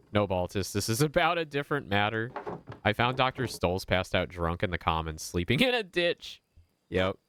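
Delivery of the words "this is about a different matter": put-on much higher, prim and polite old tradesman; a sharply higher, precise voice for a fussy craftsman. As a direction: play the busy, fastidious master brewer. Voices Baltus character.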